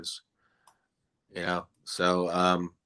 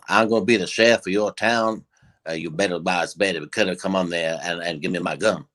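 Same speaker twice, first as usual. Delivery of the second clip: put-on Southern accent; 3 semitones lower than usual. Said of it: "little bit of Southern accent".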